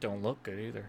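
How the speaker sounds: very hushed, quiet mutter under the breath. Voicing a clerk who comments on a traveler: muttering under her breath. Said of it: "you hear her mutter under her breath".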